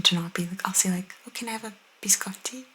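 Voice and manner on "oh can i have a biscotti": quick, softer order with a dulled-down Italian biscotti; toned-down Italian pronunciation. Acted. Ordering in a café, toned-down Italian pronunciation. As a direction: keep the Italian in biscotti understated. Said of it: "dull down the pronunciation".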